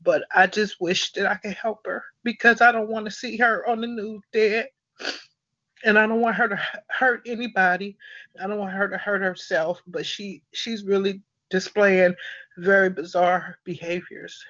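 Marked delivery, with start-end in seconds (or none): 0.0-9.8 emotional. Real, not acted. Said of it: "I didn't mean to get emotional".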